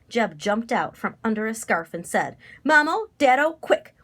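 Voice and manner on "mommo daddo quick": loud, high summons; calling out. A narrator's reading. Young scarecrow summoning his parents, loud high call.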